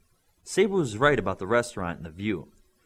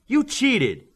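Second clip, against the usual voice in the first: accusing shout; 14 semitones higher, 7 dB louder than usual. Acted. Angry arcade accusation.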